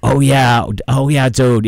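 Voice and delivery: lightly imitated South Shore Boston accent. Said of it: "he's got the whole accent, like, South Shore".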